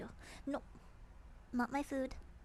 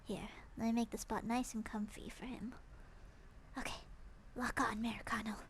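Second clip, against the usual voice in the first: whispering; 2 semitones lower, 6 dB quieter than usual. Real, not acted. Quiet while luring the cat.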